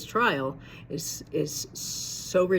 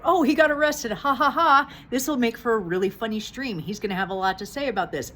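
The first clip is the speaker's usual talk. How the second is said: higher, louder mock glee that settles down and speeds up; mocking amusement; 5 semitones higher, 4 dB louder than usual. Mocking viewers who thought the arrest was funny. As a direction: imitate people laughing the arrest off. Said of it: "at first it was like".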